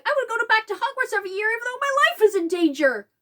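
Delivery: fast, high mock whine; sarcastic parody of Harry's excuse. Mocking Harry's reasoning about Hogwarts, fast and high. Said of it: "keep Harry going".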